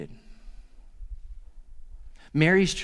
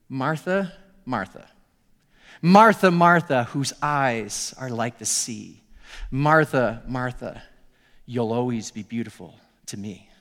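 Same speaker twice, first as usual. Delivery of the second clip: tender recited love poem; 5 semitones lower than usual. Retold or imitated. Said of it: "each line started with".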